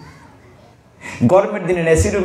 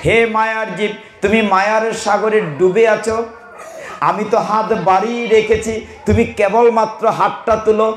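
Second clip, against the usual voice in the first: higher, tender divine reassurance; voice of God; 6 semitones higher than usual. Retold or imitated. God reassuring a drowning soul, higher and tender. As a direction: speak as God reaching out a hand. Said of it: "মা শুচ মানে don't worry".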